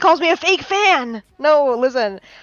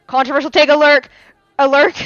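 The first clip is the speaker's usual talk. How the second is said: louder and fast, like a siren announcement; hyped alarm call; 5 dB louder, faster than usual. Acted. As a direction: sound the alarm, hurry it out. Announcing a hot take.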